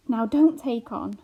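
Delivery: slow, uneasy soothing; calm her down, not quite sure of himself. A narrator's reading. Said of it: "said Pod uneasily".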